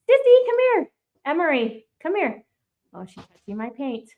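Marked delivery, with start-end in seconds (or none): 0.1-2.4 high singsong call to a little one; grandma calling out to her grandchild. Real, not acted. Calling toddler to come over.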